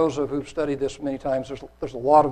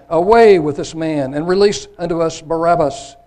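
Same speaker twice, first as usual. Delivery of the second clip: crowd crying out; 4 semitones higher, 8 dB louder than usual. A narrator's reading. Crowd demands Barabbas from the governor, crying out loudly. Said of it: "And they all cried at once".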